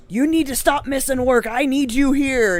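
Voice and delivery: mock yell from an upset old man; retold yelling. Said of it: "first he yelled at me".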